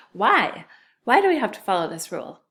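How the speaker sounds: mock puzzled student. Teacher playing a puzzled student asking why. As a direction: ask it like a confused student. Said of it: "maybe you're asking yourself".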